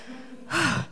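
long sigh to catch breath; breathy sigh. Real, not acted. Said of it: "can't catch my breath".

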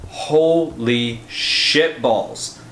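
very slow, stretched exclamation; drawn-out awe. Real, not acted. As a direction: savor the shock. Spoiler awe.

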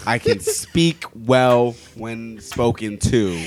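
slow over-careful speech; pompously enunciated; mock proper. Slow mock posh claim.

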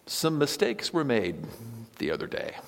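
mock evasive apology. Shown as a demonstration. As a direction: start high, then trail off into a whisper. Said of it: "you might say something like".

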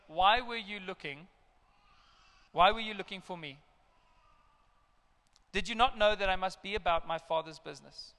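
put-on calm twelve-year-old. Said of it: "in his calm twelve-year-old manner".

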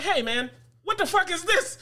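high incredulous question through laughter; retold outrage at the broken bed frame; laughing disbelief. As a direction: demand an answer, half laughing.

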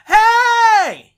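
high, loud shouted hey; yelled hey. Retold or imitated. Neighbor yelling from down the street, loud. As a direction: call out across the street. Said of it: "cockknocker down the street goes".

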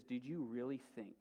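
softly voiced menace, only half whispered; mock whisper. Witch to lion before the dagger, lightly imitated whisper. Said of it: "she whispers something to him".

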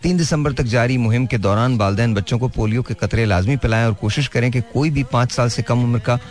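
public service announcement. Acted. Host reads polio announcement.

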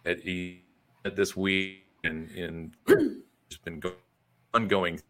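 breaking up on a bad call connection; choppy internet call audio; glitchy call audio. Real, not acted. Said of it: "you're breaking up again".

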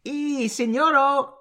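high, lightly voiced mock Mexican accent. Doing a Mexican voice on the co-host's request. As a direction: put on a cheesy Mexican voice.

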